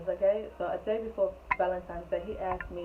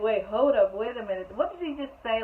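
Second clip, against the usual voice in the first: surprised; 3 semitones higher, 4 dB louder than usual. Real, not acted. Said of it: "in my mind".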